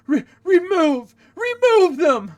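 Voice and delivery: a council chief yelling for guards; furious shout. Acted. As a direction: bellow the order to throw them out. Chiefs demand expulsion.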